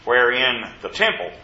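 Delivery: firm, measured Bible reading; scripture reading. Acted. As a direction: read the verse out to the congregation. Reads scripture aloud.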